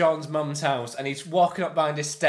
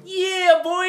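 mock yell; 7 dB louder than usual. Nick Frost pulls up in car.

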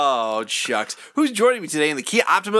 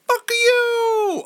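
high angry yell out the window; shouting. Retold or imitated. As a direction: yell it at him. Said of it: "we was just like".

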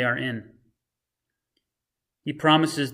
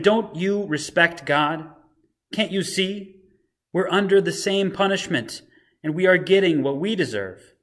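rebuking criminal; 4 semitones higher than usual. Retold or imitated. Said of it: "rejects this line of thinking".

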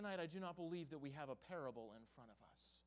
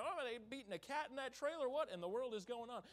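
alarmed passerby; 6 semitones higher than usual. Retold or imitated. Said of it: "somebody's walking by".

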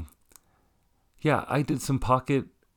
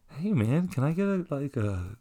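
cheeky ask; 5 semitones higher than usual. Retold or imitated. Retold asking the fan for money.

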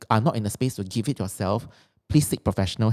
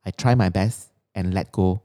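affirmation reading. Acted. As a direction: read each line like a mantra. Reads her written affirmations.

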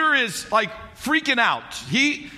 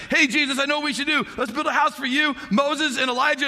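a hint of eager Peter, higher; 6 semitones higher than usual. Peter interrupting the holy moment, lightly voiced eagerness. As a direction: blurt the idea brightly. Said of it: "Peter's like".

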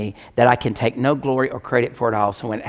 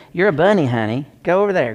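higher, sing-song pet talk to a bunny; cooing at a bunny; 3 semitones higher, 3 dB louder than usual. Real, not acted. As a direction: coax the little bunny along.

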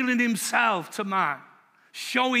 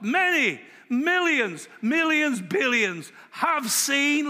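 building excitement; 5 semitones higher, much slower than usual. Real, not acted. Preacher building numbers excitedly.

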